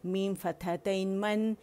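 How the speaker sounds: slow मन with clear nasal nun; tanween demo. Shown as a demonstration. Teacher showing how to read tanween. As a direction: stretch मन slowly. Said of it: "तो इसे कैसे पढ़ेंगे".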